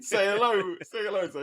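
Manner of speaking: playful puppet master prompting; puppeteer voice. Pretend. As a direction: coax the puppet to speak. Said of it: "if I have my arm like this".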